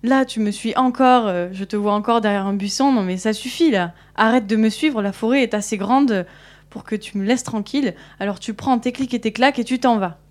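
put-on an irritated girl lecturing a pest, half-hearted anger; exasperated telling-off. Girl tells off the wolf following her, exasperated. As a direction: scold the wolf, fed up, with a sharp start that settles. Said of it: "elle commence à s'énerver encore".

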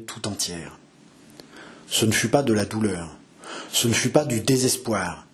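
measured literary reading; dramatic story narration. A narrator's reading. Narrator telling of a mother's desperate search, dramatic narration. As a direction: read the novel with grave, dramatic phrasing. Reads the novel aloud after own introduction.

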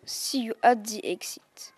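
whispered aside to the pupils. Acted. Teacher whispers to the pupils while leading a scared girl out. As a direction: whisper it so only the class hears.

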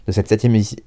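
tripping over the words, a little fast; stumbling start. Real, not acted. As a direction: trip and break off mid-word. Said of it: "je bégaye".

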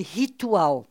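RITUAL with the R as a breathy H; back R at word start. Shown as a demonstration. Showing a listener the Brazilian back R, RITUAL starting like H. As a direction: say RITUAL drawn out, like "hee-too-al". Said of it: "au début, c'est un R".

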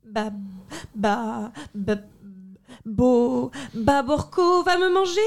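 put-on stuttering terrified boy; stammering fear. Boy panics at empty plate.

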